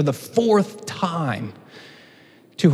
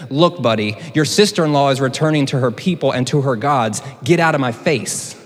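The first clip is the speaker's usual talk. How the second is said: brusque paraphrase. Pretend. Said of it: "just humor me for a moment".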